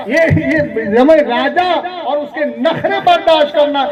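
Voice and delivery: animated pulpit appeal to the brothers; fervent sermon delivery; impassioned preaching. Acted. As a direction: plead with the congregation, lively and emphatic. Preaches about daughters seen as burden.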